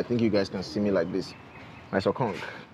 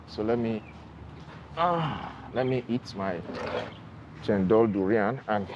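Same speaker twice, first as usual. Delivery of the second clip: muffled behind surgical mask; speaking with covered mouth; through a face mask; 2 semitones higher than usual. Real, not acted. Seen 2: Speaker films scenery; mask visible on own face from 14.5 on.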